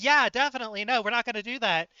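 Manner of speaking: mock the group's easy promise; eager agreement. Mocking the players' eager promise to avoid genocide, overeager. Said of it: "And everyone's like".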